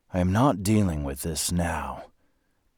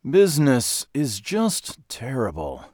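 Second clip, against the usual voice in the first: slow, higher, louder moan; moaning complaint; 7 semitones higher, 6 dB louder, slower than usual. A narrator's reading. Depressed undertaker complains about his business, moaning. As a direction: draw out the woe, theatrically. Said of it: "he moaned".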